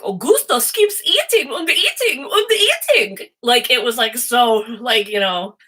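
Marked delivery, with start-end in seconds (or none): 0.0-3.3 put-on high, slow German-accented stage voice; exaggerated comic German accent, pitched way up; Missus Gloop's German accent. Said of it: "had this accent".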